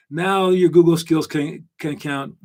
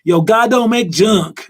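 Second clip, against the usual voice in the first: louder, higher Black American accent, drawn out; 5 semitones higher, 5 dB louder, slower than usual. Shown as a demonstration. Host imitates older Black people's saying, Black American accent. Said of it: "That's my black accent".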